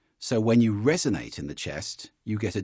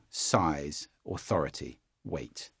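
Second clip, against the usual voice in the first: deep voice; 8 semitones lower, 6 dB quieter, slower than usual. Shown as a demonstration. Coach voicing power words in a deep voice. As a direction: lower and softer, sinking deep. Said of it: "depth in a voice".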